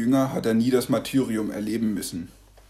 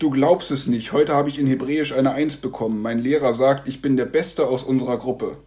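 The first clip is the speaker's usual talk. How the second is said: a lightly voiced boy, higher and eager; excited boy; 3 semitones higher, 4 dB louder than usual. A boy telling grandpa about his top mark, lightly voiced and eager. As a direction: brag a little, a young boy bursting with news. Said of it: "sagt Joshua aufgeregt".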